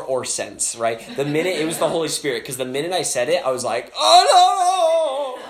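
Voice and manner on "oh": high-pitched comic wail of dread; mock panic. Preacher regretting his bold promise of healing, mock panic. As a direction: wail and backpedal in hammed-up panic.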